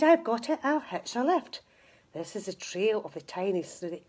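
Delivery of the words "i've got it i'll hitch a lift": a bright, higher burst of an idea; light up with the sudden plan; cried out. Acted. Tiny snail struck by her idea, excited cry. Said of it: "then cried".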